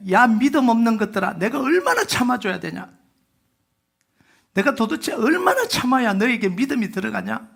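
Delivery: mildly exasperated scolding, not shouted; a touch of frustrated reproach; mock rebuke. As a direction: scold the faithless disciples half in jest. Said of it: "이렇게 책망을 한 거죠".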